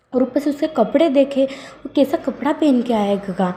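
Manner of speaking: angry complaint. Acted. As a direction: vent the frustration, voice up high. Boss angrily complains about employee. (झुंझलाकर ऊँची आवाज़ में शिकायत)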